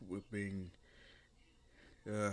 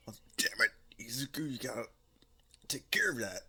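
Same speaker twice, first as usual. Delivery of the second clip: urgent mock command; 3 semitones higher, 6 dB louder, faster than usual. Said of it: "It's like".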